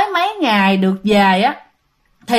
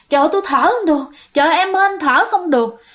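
higher-pitched mock cry for breath; retold panicked cry; 5 semitones higher, much faster than usual. Husband wakes his wife, unable to breathe, imitated panicked cry. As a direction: act out a choking man calling out, not at full volume. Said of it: "anh rể la hét toáng lên".

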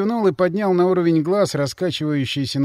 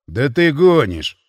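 slow, drawn-out disbelief; you can't be serious; disbelieving; 5 dB louder, slower than usual. Acted. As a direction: drunk friend doubting. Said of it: "не поверил мне Ворон".

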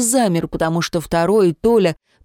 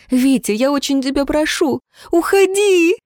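tearful shout; 8 semitones higher than usual. A narrator's reading. Jemma in tears begs Vitya to go, high tearful shout. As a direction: plead through tears, ending in a shout. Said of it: "По её щекам покатились слёзы".

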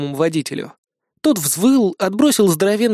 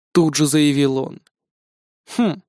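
ordinary delivery

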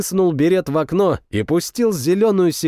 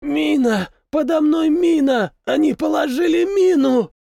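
high, crying shout of terror; terrified wounded soldier crying out; panicked cry; 12 semitones higher than usual. A narrator's reading. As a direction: scream the warning in panic. Wounded man lying on a mine.

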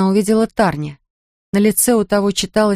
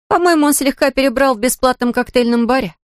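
a light wince in the voice, higher; wincing; 7 semitones higher than usual. A narrator's reading. Kerensa winces telling Polly about Chris's drinking, mildly. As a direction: tell it with a slight grimace. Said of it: "поморщилась Керенса".

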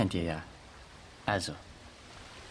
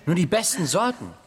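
laughing while boasting; 5 semitones higher than usual. Acted.

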